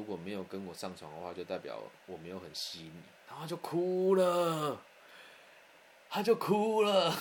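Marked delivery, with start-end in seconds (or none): 3.3-7.2 drawn-out disbelief. Real, not acted. Punchline about her crying.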